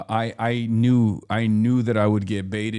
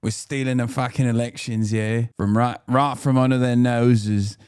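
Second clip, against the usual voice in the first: put-on British accent. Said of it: "I shouldn't be doing this accent".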